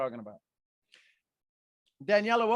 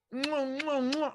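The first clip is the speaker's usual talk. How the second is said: kissing sounds; 8 semitones higher, slower than usual. Retold or imitated. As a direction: blow kisses at yourself. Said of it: "I could hear him over the phone".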